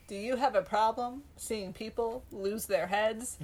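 lightly voiced pushy salesman; car salesman pitch. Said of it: "Sound like a car salesman".

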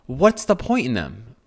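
giggling through a mock rant; laughing at herself. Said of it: "I just started laughing".

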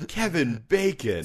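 mock celebrity impression, drawn out; Kevin Bacon. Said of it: "This is my Kevin Bacon accent".

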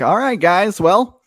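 lightly voiced driver explains the way; folksy driver. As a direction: point out the temple eagerly. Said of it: "he's like".

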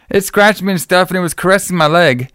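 high-pitched mock complaint; imitated upset girl. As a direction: mimic her protesting, voice lifted. Voices upset girl from film.

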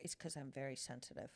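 self-mocking giggly confession; laughing. Real, not acted. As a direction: mumble it through a laugh.

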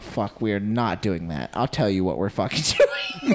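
low, rough refusal; low gruff retort. Retold or imitated. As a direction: growl it out low and firm. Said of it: "and I'm like".

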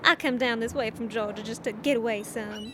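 breathy Southern belle whisper; Southern accent. Acted. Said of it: "Why can you do a Southern accent?".

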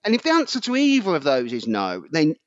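impassioned telling-off with swooping pitch; ranting, half-joking scolding; worked-up rant. Real, not acted. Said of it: "I'm really sorry I'm shouting at children here".

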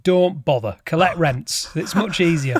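put-on light Yorkshire accent, blunt dad; a hint of a Yorkshire dad. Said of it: "in his Yorkshire accent".

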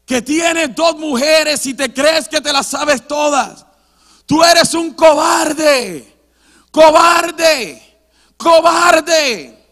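loud, accusing preacher's shout; predicador acusador. Retold or imitated. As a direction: thunder it slowly like a confronting preacher. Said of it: "este predicador ese día comienza a decir". (predicador que increpa a gritos)

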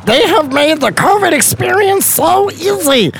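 raspy goblin reading a review. Acted. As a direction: croak it out like a cackling goblin. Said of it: "I only have one voice, and it's like a goblin voice".

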